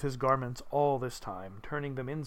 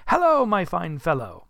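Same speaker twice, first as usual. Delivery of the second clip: loud, raised greeting; hearty hail; 4 semitones higher, 7 dB louder than usual. Acted. Scrooge hailing boy from his window, loud hearty greeting. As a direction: call down cheerily.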